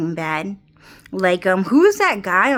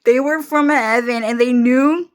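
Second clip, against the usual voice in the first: laughing rant; 3 semitones higher than usual. Real, not acted. Laughing conspiracy bit.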